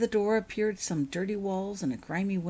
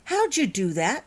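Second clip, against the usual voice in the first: higher, louder amazed question; exclaiming; 6 semitones higher, 5 dB louder than usual. Acted. Holly amazed at the street lights, excited exclaim. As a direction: marvel at the trick. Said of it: "she exclaimed".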